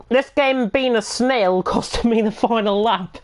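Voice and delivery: reading a comment through laughter; laughing while reading. Retold or imitated. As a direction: chuckle through the quote. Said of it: "What a comment that is".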